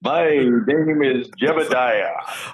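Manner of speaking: slow, drawn-out pirate Amish talk; hammed-up old Amish pirate. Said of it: "I sort of sound like a pirate".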